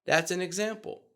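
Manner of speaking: bright upward finish; rising end. Shown as a demonstration. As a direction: pitch rises at the end of the line. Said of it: "here's how it's going to sound".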